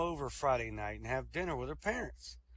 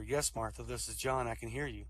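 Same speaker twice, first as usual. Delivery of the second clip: ghostly voice; 3 semitones lower than usual. Acted. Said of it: "Ghostly voice answered her".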